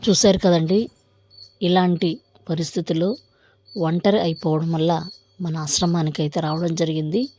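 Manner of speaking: measured presenter read in short phrases; video outro. Real, not acted. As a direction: address the viewers, lifting the phrase endings. Vlog outro to viewers.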